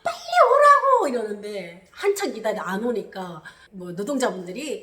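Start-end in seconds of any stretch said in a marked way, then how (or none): 0.0-1.1 high, loud yell with a sob in it; tearful yell. Retold or imitated. Shouting to the sister to hurry, crying and loud. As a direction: scream at her to come now. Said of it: "그러니까".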